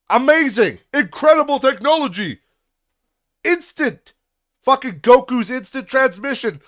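high, loud mock amazement at email; sarcastic amazement. Ranting at the tax office, hammed-up sarcastic awe. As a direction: gush over email like it's a miracle.

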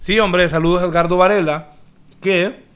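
talking with a mouthful; words around a bite of food; chewing while talking. Real, not acted. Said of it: "estoy comiendo".

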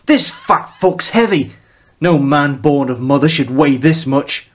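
loud, strained Mancunian grumble about the weight; Mancunian complaint. Acted. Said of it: "curious mix of Mancunian and the Old English".

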